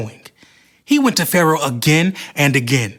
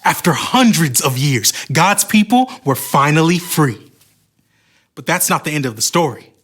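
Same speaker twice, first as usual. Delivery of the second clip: steady storyteller reading a Bible story; story narration. Acted. Host narrating the Moses story to viewers, lightly dramatic. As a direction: tell it like a children's Bible story.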